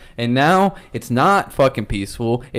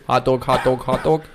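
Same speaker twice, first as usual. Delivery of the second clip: lightly Boston "hot dog, hot dog"; Boston accent warm-up. Shown as a demonstration. Recalibrating his Boston accent mid-podcast. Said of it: "If I ever lose it like this".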